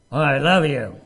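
loud, mocking "Oh, I love you" with a sneer; sarcastic I love you. Shown as a demonstration. Preacher showing how not to tell your spouse you love them, sarcastic. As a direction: toss off "I love you" like it means nothing. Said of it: "in a tone that does not convey love".

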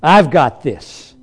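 mock self-confident "I can do it"; proud boasting. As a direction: puff up like a proud person. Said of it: "in our natural pride".

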